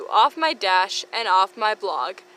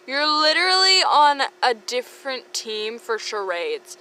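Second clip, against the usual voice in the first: frustrated; 4 semitones higher, 4 dB louder than usual. Acted. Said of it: "Ginny, frustrated".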